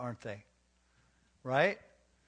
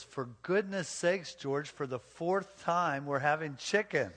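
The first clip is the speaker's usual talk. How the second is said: slow, higher, fed-up wife spelling it out; a put-upon wife who has said it four times; mildly exasperated, drawn-out retort; 3 semitones higher, slower than usual. Retold or imitated. Wife snaps back in joke.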